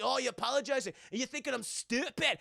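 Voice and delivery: mock indignant Scot; goes off. Scotsman rejecting Jack's apology, goes off. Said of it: "this guy just fucking goes off".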